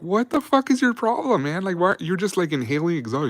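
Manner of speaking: can't believe what he's doing; incredulous buddies. Retold or imitated. Soldiers ask their buddy why he's breathing exhaust, high incredulous. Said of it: "we're like".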